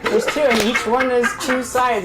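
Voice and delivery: put-on slurred, rambling drunk voice; town drunk voice. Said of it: "Is he drunk or high?".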